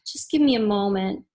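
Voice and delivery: quiet, unhurried request for a moment; hushed reader voice; soft and calm. Shown as a demonstration. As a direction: ask for patience gently. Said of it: "I might say to you".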